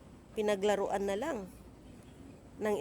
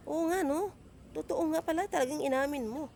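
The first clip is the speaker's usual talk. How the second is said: sarcastic; 7 semitones higher than usual. Retold or imitated. Sarcastic mock agreement.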